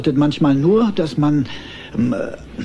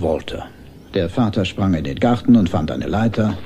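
lower, measured reading-aloud voice; bedtime story reading; 4 semitones lower than usual. Acted. Father reads his son a bedtime story, measured storytelling. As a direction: read a Christmas tale to a child at bedtime.

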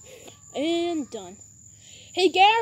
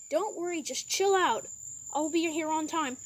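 lower, quicker call-centre operator voice; operator Jimmy; 4 semitones lower, 6 dB quieter than usual. Pretend. Medic service operator Jimmy answers the driver, low and brisk. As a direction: answer the phone like a calm service clerk.

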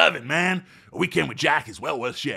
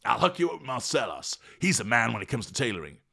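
very high, loud superhero whoop; thrilled shout; 9 semitones higher, 6 dB louder than usual. Acted. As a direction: yell it like he's flying.

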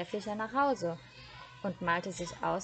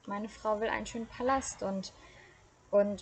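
stammering; 2 semitones higher than usual. Acted. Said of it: "stotterte der Fischer".

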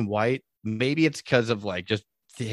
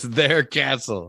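slow, drawn-out movie quote; Feldman; much slower than usual. Retold or imitated. Retelling the actor's next gag line, slowly drawn out. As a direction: stretch both words out for the gag. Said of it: "And he goes".

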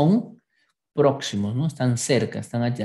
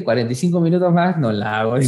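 fast, hurried self-quote; rushed panic; 2 semitones lower, much faster than usual. Retold or imitated. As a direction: blurt it out in a hurry. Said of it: "Vi la hora y dije".

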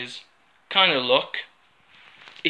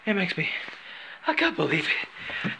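laughing; 3 semitones higher, 5 dB quieter than usual. Real, not acted. Giggling mid role-play.

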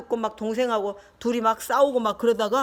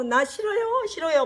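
protesting elephant; 5 semitones higher than usual. Acted. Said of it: "막 했어, 코끼리가".

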